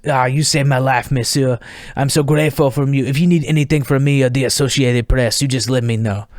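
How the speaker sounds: imitated French accent, effusively grateful; Jock. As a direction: play a thankful French reporter. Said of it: "Jock looks at me".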